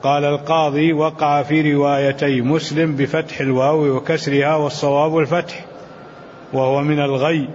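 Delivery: measured classical Arabic text reading; deliberate recitation of a commentary, phrase by phrase; formal read-aloud. Acted. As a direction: read the scholarly text out evenly.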